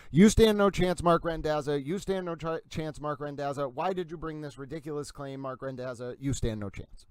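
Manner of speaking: weary repeated put-down, sinking in volume; dismissive ruling tone. Retold or imitated. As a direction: voice the ruling writing someone off. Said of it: "that's the tone of it".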